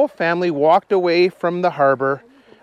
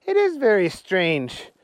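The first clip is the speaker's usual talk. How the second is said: Willie the policeman; slower than usual. Acted. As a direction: bark orders as a tiny policeman. Willie speaks.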